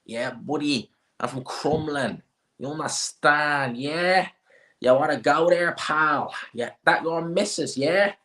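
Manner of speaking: mocking Dublin accent, pitched high; cocky Dublin "yeah?" lifted at the ends; McGregor. Streamer mimicking McGregor, high mocking Dublin accent. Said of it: "that's exactly what McGregor is".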